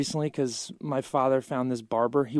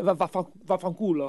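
stuttered Italian swear in a put-on voice; mock Italian curse; 5 semitones higher than usual. Offended Italians cursing him off, in a mock Italian voice. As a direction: spit out the Italian insult, hammed-up.

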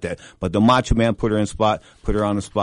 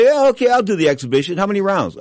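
eager; 10 semitones higher, 5 dB louder than usual. Retold or imitated. Retold eager Duran quote.

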